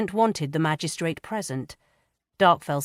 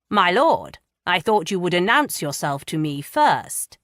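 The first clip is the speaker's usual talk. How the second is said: testy, louder pompous magistrate; a testy edge, a touch louder; 2 semitones higher, 5 dB louder than usual. Acted. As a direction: let the irritation edge every word. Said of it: "a testy edge to his voice".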